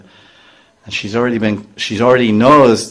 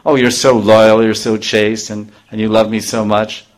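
sarcastic. Retold or imitated. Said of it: "in other words, she's saying".

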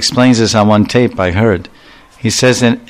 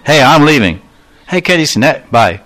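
mock breezy goodbye; 5 semitones higher than usual. Mocking curt Western goodbye.

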